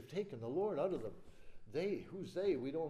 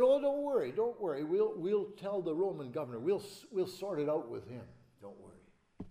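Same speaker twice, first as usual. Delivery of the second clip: reassuring priests; 2 semitones higher, 4 dB louder than usual. Acted. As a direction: soothe the soldiers like a smooth schemer.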